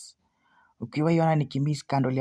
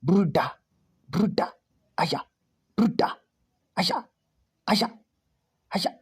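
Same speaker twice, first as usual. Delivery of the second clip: pleading calls, climbing higher each time; anxious calling out; 5 semitones higher than usual. Real, not acted. Trader watching the candle in panic, calling out higher and higher. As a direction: call out in rising panic. Nimeanza kupanic, bruda.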